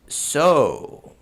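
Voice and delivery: drawn-out, confident dragon; slow dragon. Shown as a demonstration. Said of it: "they're gonna speak slowly".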